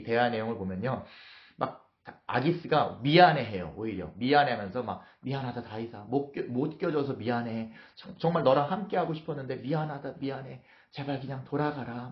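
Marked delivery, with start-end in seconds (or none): 5.2-12.1 apologetic coaxing. Acted. Achish sending David home reluctantly, apologetic coaxing. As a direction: coax gently, with a touch of regret. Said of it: "어르고 달래면서 막 미안해하면서".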